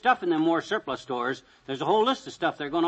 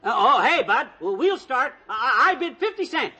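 nervous stammer; 7 semitones higher, 5 dB louder than usual. Acted. McGee nervously makes first bid.

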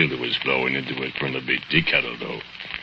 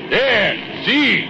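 mild holler. Retold or imitated. Bogdan luring Manas to lean over, mild higher holler. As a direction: point him to the edge. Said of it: "and I holler".

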